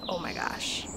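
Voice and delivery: retold breathy, whispered amazement; under your breath, reliving the shock; hushed disbelief. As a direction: whisper it, stunned. Stunned on getting the letter.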